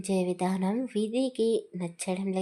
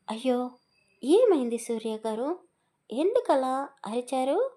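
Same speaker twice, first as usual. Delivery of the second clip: light, higher put-on innocent asking; feigned innocence; 4 semitones higher than usual. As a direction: play dumb, sweetly innocent. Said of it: "అమాయకంగా ముఖం పెట్టి అడిగింది".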